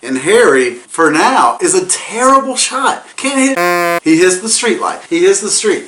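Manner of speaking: excited. Real, not acted. Excited play-by-play of shootout.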